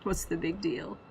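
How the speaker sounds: lightly put-on Irish accent. Lancer talking about their huge disadvantage, light Irish accent. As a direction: attempt a Jacksepticeye-like Irish voice. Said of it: "I have to imitate an Irish accent".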